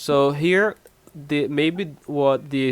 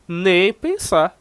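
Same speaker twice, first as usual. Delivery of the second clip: emphatic refusal; 4 semitones higher, 3 dB louder, slower than usual. Shown as a demonstration. Acted refusal of a loan request.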